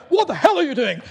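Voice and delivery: high, loud exasperated shout; retold yell. Strikers shouting at defenders chatting mid-match, loud. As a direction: bellow at the defenders who let a goal in.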